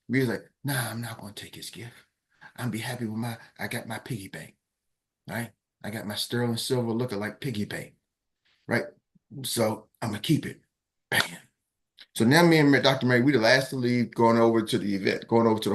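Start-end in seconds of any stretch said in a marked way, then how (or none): 0.6-10.6 much softer, settled voice; quiet refusal. Retold or imitated. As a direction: decline it gently and firmly. Rita calmly refusing.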